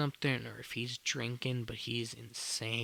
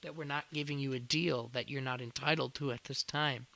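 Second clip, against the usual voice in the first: higher-pitched, incredulous retort to a customer; retold incredulous telling-off in a raised pitch; exasperated owner rebuke; 4 semitones higher than usual. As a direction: imitate a fed-up owner, pitched up. Acted owner rebuking complaining customer.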